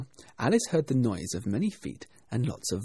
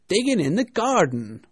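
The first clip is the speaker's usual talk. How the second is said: raised, loud servant's reply; 8 semitones higher, 8 dB louder than usual. A narrator's reading. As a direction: report to the master, calling it out. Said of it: "a voice she had never heard before".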